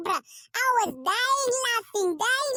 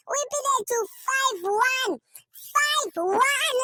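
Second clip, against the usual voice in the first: gloating emphasis; 3 semitones higher, 3 dB louder, much slower than usual. Real, not acted. Gloating over a win.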